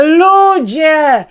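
very high, loud theatrical call; dramatic cry. A narrator's reading. Woman staging a heart attack before police, high dramatic cry. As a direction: play the dying victim. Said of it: "zawołałam".

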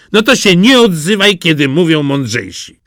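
the cat putting the duckling down; smug cat. Acted. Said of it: "A kot zapytał".

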